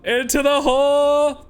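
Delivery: yelling like a dwarf warrior; a dwarf charging into battle. Acted. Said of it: "unless it's a dwarf".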